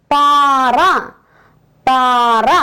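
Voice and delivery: പാറ with a long first vowel; long a in paara. Shown as a demonstration. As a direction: draw out the aa in പാറ. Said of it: "പായുടെ കൂടെ ആ ചേർക്കണം".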